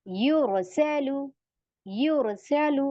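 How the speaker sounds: यूरोसेलु slow with a heavy R; heavy R demo. Shown as a demonstration. Teacher models the rule for students, slow heavy R. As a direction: recite यूरोसेलु slowly, R made full. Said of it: "आप रॉ को heavy करेंगे".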